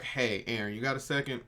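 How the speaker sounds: quietly pulling a friend aside; hushed aside. Retold or imitated.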